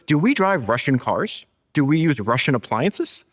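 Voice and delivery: imitating slow, pointed rhetorical questions; retold incredulous questions, pitch swinging up; rhetorical challenge. Host quotes Elon questioning Russian goods, incredulous.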